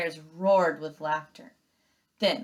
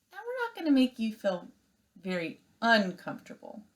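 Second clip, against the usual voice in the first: misread line; 5 semitones higher than usual. Shown as a demonstration. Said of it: "Oh, I'm sorry".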